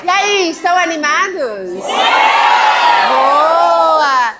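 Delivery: loud, high hype-up shout; rousing crowd greeting. Real, not acted. Host greets the audience to fire them up, rousing shout. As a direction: whip up the crowd with big, drawn-out calls.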